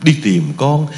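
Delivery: slow, tender poem recitation; recited poem. Acted. Monk reciting a mother's poem to the Buddhists, slow and tender. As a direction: recite it slowly, savouring each line.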